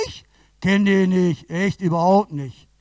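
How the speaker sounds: loud, drawn-out protest; emphatic denial. Acted. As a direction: deny it loudly, stretching the words. Acted denial by Peter.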